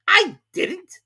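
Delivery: high, loud quick denial; high, loud hasty Hare; hurried March Hare. A narrator's reading. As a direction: cut in fast. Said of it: "interrupted in a great hurry".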